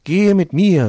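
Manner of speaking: high, loud demonic call; shrieking demon. Acted. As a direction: shout it like a greedy demon. Second demon speaks to Mantau.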